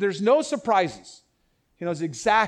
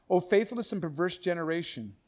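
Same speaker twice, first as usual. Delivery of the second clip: matter-of-fact. Shown as a demonstration. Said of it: "He's just saying it matter-of-factly".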